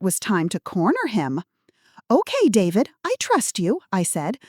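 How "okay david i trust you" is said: high, sweet granny voice; trusting old lady. Acted. Fake granny lulling the scammer, high and sweet. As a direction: sound innocently trusting. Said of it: "I maintained my confused elderly woman role".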